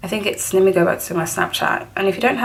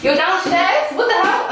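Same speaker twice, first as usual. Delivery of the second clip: surprised; 10 semitones higher than usual. Real, not acted. Surprised at friend's arrival.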